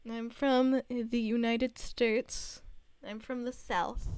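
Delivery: slow Southern drawl; Southern accent. Real, not acted. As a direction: say it slow, Southern gal style. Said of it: "Do I really have an accent".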